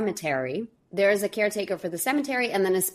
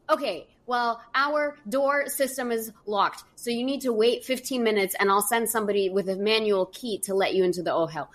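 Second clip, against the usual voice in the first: put-on Yiddish accent; 3 semitones higher than usual. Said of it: "thick Yiddish accent".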